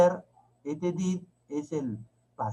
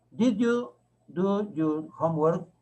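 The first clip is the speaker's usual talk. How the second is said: slow but joined-up question; measured teacher's model question; slow read-back; slower than usual. Shown as a demonstration. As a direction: read the whole question slowly, rising at the end. Teacher reads back the written question.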